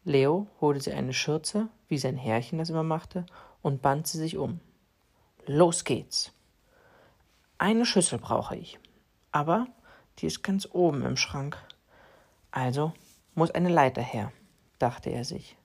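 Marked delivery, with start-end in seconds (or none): 5.4-14.3 a hint of a busy little cat talking to himself; cat Leo's thoughts. Cat Leo voiced in story.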